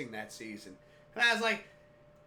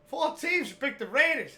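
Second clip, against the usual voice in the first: high, raised excited voice; loud insistence; 8 semitones higher, 7 dB louder than usual. Retold or imitated. Dad repeats the winning pick, loud and high.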